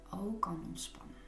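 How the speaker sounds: whispering. Real, not acted. Soothing guided relaxation.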